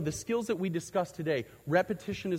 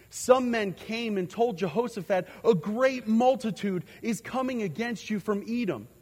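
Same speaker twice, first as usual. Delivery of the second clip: raised, higher-pitched Bible reading; scripture reading; 5 semitones higher than usual. Real, not acted. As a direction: read the verse out to the congregation, pitched up. Reads scripture aloud to congregation.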